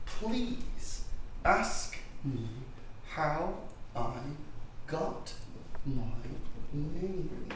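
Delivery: pompous slow instruction; word by word. Acted. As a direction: drag it out for effect. Guru pauses every word.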